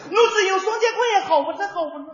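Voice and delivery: put-on high Shanghai accent singing through laughter. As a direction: sing it with a Shanghai lilt, laughing. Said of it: "唱起来别有一番风味".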